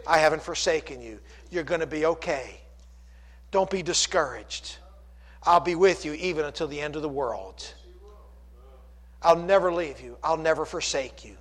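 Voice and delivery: gently reassuring, voice dropped after the preaching; still small voice. Acted. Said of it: "speaks to us in that still small voice".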